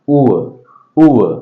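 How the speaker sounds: "Oor" gliding from oo to schwa; model pronunciation. Shown as a demonstration. Teacher has learners pronounce after him, careful model "Oor". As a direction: say "Oor" as an isolated vowel glide, no r. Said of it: "Pronounce it after me".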